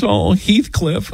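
high, slow mock swoon; swooning wife. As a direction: sigh the name like a lovestruck fan. Imitates wife swooning over film.

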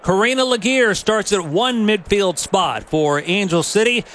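punchy lineup announcement with swooping pitch; sports announcer. Real, not acted. Announcer reading the starting lineup to listeners, sports announcer delivery. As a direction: announce each player's name with emphasis.

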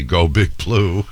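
slow, emphatic team chant; drawn-out mock cheer; all-caps cheer. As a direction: read it like an all-caps text. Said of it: "in all caps, I see".

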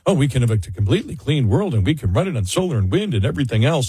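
rushed mock idealist patter; mocking the left. Host parodies the left's promise of clean energy, mocking. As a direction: rattle it off dismissively. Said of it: "B S that the left throws at you".

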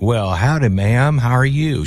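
lightly mocking Texan drawl; put-on Texas accent. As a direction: imitate a fake Texan greeting a friend's mom. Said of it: "had no Texas accent and all of a sudden he was like".

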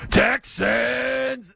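drawn-out announcer bellow of Texans; mock loudspeaker hype call; stadium announcer call. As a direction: call it out like the PA guy. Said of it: "the guy in the loudspeaker just goes".

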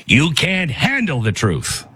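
a hint of a slow, emphatic courtroom retort; Jack Nicholson. Host catches himself turning into a movie star, light impression. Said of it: "I'm turning into Jack Nicholson".

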